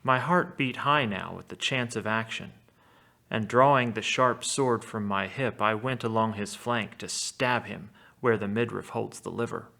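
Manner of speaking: measured epic reading with a touch of drama; reading an epic aloud. A narrator's reading. Teacher reading Odysseus's lie to the Cyclops aloud, in epic style. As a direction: read it like the Odyssey text. Reads Homer's text aloud.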